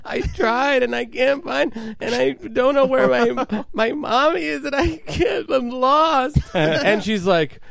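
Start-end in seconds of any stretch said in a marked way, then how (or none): 0.0-6.4 put-on high whiny little-boy voice, pitched way up; lost little kid. Prank-calling a stranger's grandma as a lost child, high kid voice. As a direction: play a small boy who can't find his mommy.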